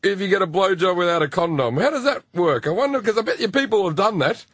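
lightly voiced probing dad, wondering aloud; half-innocent questions from a curious father; dad feeling it out. Imitating dad fishing for answers from his son, lightly probing. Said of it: "He's feeling out".

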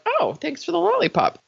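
put-on high, suddenly cheerful kid voice; imitating a child. Mimicking a kid who stops crying instantly, high and chirpy. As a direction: chirp it like a little kid over a treat.

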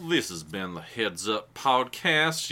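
slow put-on announcer voice, drawn out; little outro voice. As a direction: stretch the sign-off into a silly little voice. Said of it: "a little voice like that".

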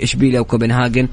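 normal talking voice

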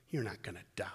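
soft, sly whisper of the serpent. Retold or imitated. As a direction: whisper it like a tempting snake. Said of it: "You've got the serpent saying".

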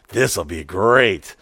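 low, mock-refined rich man; stretched-out, smug club-member voice; country club host. Mimics snobby club member inviting him.

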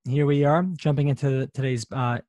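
ordinary talk, nothing marked

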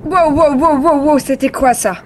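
high, loud startled wows; startled cry. Acted. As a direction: jolt awake in alarm. Jolted awake by turbulence.

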